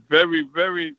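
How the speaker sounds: "very, very" stretched and leaned on; stress on very. Shown as a demonstration. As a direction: draw out each "very" for weight. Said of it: "I can't stress the word very".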